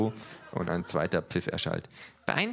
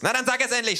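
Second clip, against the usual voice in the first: loud, high, angry thug; calling out; 6 dB louder, faster than usual. A narrator's reading. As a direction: bark the order. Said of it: "schreit er". (laut und hoch gerufen)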